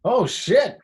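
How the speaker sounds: high, loud starstruck gasp of words; re-enacted astonished outburst; retold shock. Acting out shock at meeting star.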